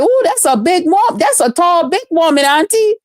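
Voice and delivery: a hint of an amazed little niece; niece's voice. Quoting her niece to viewers, a hint of child voice. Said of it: "She was like".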